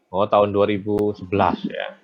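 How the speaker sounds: glitchy robotic voice breaking up. Real, not acted. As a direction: voice choppy over a bad connection. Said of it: "Kok suaranya kayak robot ya?".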